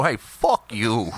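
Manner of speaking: low, slow mock brush-off; comic deep-voiced dismissal; imitated retort. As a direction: drop low and draw out the insult jokingly. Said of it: "you go".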